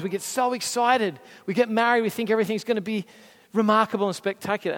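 high, loud, gushing over-excitement; giddy excitement. Acted. Preacher mimics starry-eyed newlyweds for the congregation, excited.

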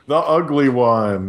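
slow, lightly voiced cartoon girl; laughing cartoon girl voice; ugly girl voice. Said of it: "sounds like Teen Girl Squad".

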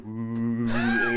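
drawn-out machine-like "oooh"; long humming "wooo" noise; imitated whirring "ooh". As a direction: mimic lab apparatus with a long "ooh". Imitates allergy-testing lab apparatus noise.

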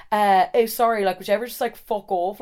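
attempted English accent; a stab at an English lad's accent. English guy telling off the roommate, lightly attempted English accent. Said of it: "he was English, so he was like".

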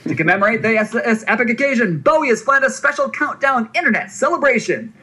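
high, excited carnival barker pitch; hype voice. Acted. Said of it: "use a hype voice".

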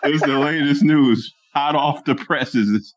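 mock news announcer. Teasing co-host as a news announcer.

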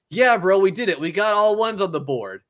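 mock gloating cheer. The speaker gloating over final score.

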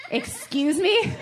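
slow, drawn-out "Excuse me?" rising with a laugh; mock offense on her daughter's behalf; hammed-up indignation; indignant mom.

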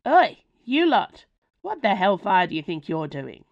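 barge in yelling at her sons; Ma bursting into the cellar, yelling at her werewolf sons; bursting shout. Acted. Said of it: "A new voice burst into the cellar".

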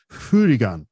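FURIGAN with an f and a rolled-off r; Japanese pronunciation. Retold or imitated. Explaining the Japanese word to podcast hosts, Japanese-style pronunciation. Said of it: "in Japan they call it".

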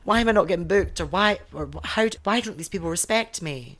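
moaning like an entitled newcomer; whiny new queen. Retold or imitated. A newcomer complaining about bookings, mock whiny. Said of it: "you scream and shout when you're new".

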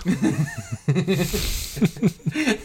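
helpless high giggling; high-pitched laughter. Real, not acted. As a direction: laugh high at a friend's mistake. Laughing at jalapenos mispronunciation.

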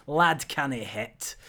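jokey put-on Scottish accent. Host explaining why the anagram needs it, jokey Scottish accent. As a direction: deliver the phrase in mock Scottish. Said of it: "definitely need a Scottish accent for".

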